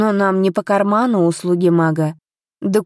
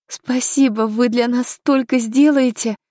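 higher, slowing thank-you; grateful thanks; 5 semitones higher than usual. A narrator's reading. Heroine thanking the investigator for his help, gratefully, higher and slower. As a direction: voice lifted in gratitude, taking it slowly. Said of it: "поблагодарила я дознавателя".

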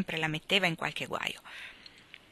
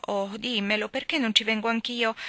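sweet coaxing; 4 semitones higher than usual. Acted. Amy sweetly coaxing Meg to take her along. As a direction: coax gently, stretching "non" in "perché non ci vengo anch'io". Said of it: "e buona buona le domandò".

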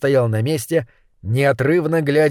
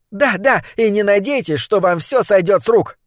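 put-on cocky girl voice; 6 semitones higher than usual. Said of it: "заявила злокозня".

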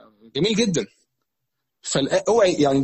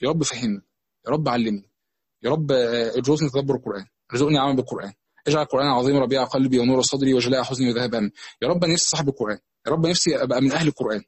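low, hushed plea to God; personal supplication; 5 semitones lower than usual. Acted. Worshipper asking God before reciting Quran, low supplication. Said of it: "يدعي ربنا".

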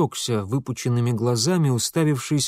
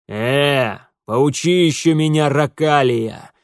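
louder gruff bark, drawn out on «Ракалия»; 5 dB louder, slower than usual. A narrator's reading. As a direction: snap back at the upstart. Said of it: "рявкнул исправник". (рявкнул исправник)

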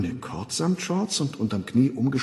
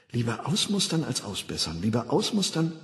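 hypnopaedic slogan. Acted. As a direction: repeat it gently like a recording. Schlafschul-Parole. (leise eingetrichterte Parole)

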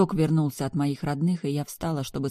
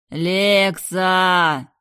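higher and much louder call; desperate call; 4 semitones higher, 9 dB louder than usual. Acted. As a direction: shout to get through. Brother yelling for her.

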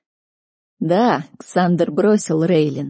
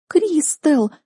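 much higher, shocked and offended cry of a name; hurt gasp; 10 semitones higher than usual. A narrator's reading. Sister gasping at Kristel's cruelty, hurt and offended. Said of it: "обиженно ахнула Лин".

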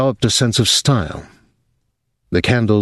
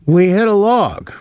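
high, urgent report; 12 semitones higher than usual. Acted. Dwyer reporting to Thomas, urgent high report. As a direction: tell the captain fast and tense.

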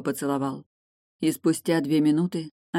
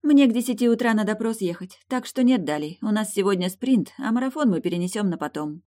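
put-on higher, louder young woman's voice; lover's eager pleading, higher and louder; eager young princess; 7 semitones higher, 4 dB louder than usual. A narrator's reading. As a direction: play Eilin, eager and breathless with wanting. Eilin voiced by narrator.

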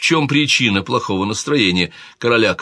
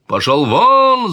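very high, loud, slow bellow; king bellowing; 11 semitones higher, 6 dB louder, much slower than usual. A narrator's reading. King Alfonso yelling at the servant, loud bellow. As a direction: roar at the servant to get out. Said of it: "заорал король Альфонсо".

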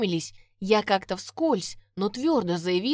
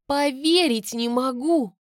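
shocked; 5 semitones higher, 5 dB louder, slower than usual. Acted. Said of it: "только и смогла выдавить я".

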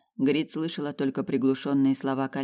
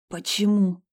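rasping, higher and straining; hoarse; 6 semitones higher, 4 dB louder, slower than usual. A narrator's reading. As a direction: croak it out hoarsely. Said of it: "прохрипела она".

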